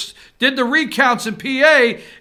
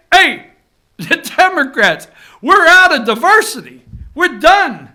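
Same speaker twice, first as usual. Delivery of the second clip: mock candidate quote; 6 semitones higher, 8 dB louder than usual. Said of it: "He's saying, they're saying".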